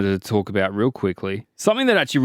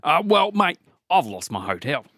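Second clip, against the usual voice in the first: broad Aussie; 3 semitones higher than usual. Pretend. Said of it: "the accent is".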